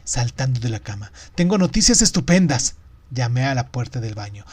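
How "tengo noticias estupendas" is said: higher, loud announcement; excited shout. A narrator's reading. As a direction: burst out with great news. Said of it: "grité". (anuncio gritado con alegría)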